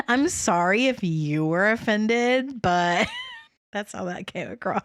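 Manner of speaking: giggling through a mocking apology; laughing tease. Real, not acted. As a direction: laugh while teasing a fake sorry. Teasing co-host's non-apology.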